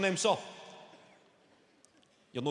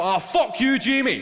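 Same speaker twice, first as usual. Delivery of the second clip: put-on loud, higher, raging at the boy; furious shout; 7 semitones higher, 10 dB louder than usual. Angry dad screaming at Jamie from the touchline, loud and high. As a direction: blast it across the pitch.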